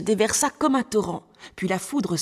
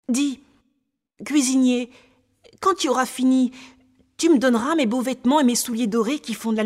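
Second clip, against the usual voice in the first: put-on higher-pitched eager child; little boy; 4 semitones higher, 4 dB louder than usual. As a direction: play a trusting little boy chatting to the cook. Story's little boy speaks. (petit garçon confiant, voix plus haute)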